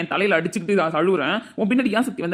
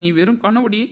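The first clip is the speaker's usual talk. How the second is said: angry retort; 8 dB louder than usual. Acted. Husband insulting wife in quarrel.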